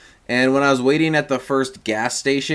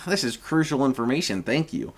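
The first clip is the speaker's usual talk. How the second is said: deadpan; 6 dB quieter than usual. Retold or imitated. Deadpan mock gratitude.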